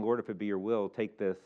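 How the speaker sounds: a pleading hushed prayer; Jesus praying. Retold or imitated. Jesus praying in Gethsemane, soft and low. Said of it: "and saying".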